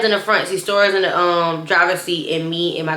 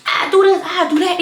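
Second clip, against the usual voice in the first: mock bragging; 11 semitones higher than usual. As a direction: lightly parody her boasting. Mocking cousin's bragging.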